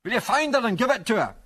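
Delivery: high-pitched sustained calling; shout. A narrator's reading. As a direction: shout the request across a distance. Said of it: "shouted Angus".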